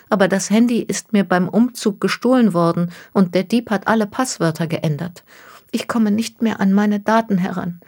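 anxious young woman, lightly voiced. Miss Takahashi explains, distressed.

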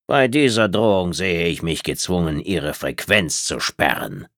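kühl und von oben herab, langsam; herablassende Reptiloidin. Acted. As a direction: lass sie jede Silbe überlegen auskosten. Tretzab droht mit Sperre. (herablassende Außerirdische, leicht angedeutet)

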